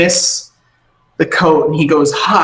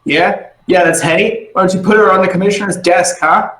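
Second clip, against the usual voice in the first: taunting guard; 5 semitones higher than usual. Acted. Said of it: "picking feathers out of his armor going".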